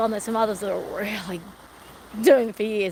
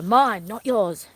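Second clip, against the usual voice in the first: firm, drawn out; 3 dB louder, much slower than usual. Shown as a demonstration. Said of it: "one of the ways to show dogs".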